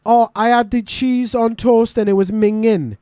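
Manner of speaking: slow mock disgust; example sentence. Shown as a demonstration. Host demos minging with a slow mock disgusted line. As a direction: act out disgust at the food, slowly. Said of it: "Minging for us would be".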